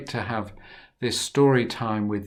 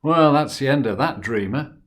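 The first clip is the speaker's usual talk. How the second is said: gloating; 7 dB louder than usual. Acted. Brothers' gloating thought.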